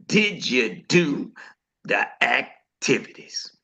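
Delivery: slow, hushed quote that drops to a whisper; quoting the coach. Retold or imitated. To the team, echoing Coach Eric's question in a slow hush. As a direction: ask it slowly, then whisper the end. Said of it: "as Coach Eric said".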